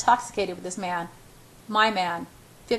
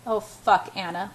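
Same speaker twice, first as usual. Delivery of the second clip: choked cry; slower than usual. Acted. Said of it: "he chokes".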